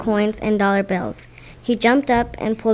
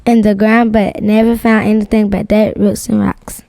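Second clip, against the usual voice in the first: loud reading; 9 dB louder than usual. Real, not acted. Child reads narration loudly.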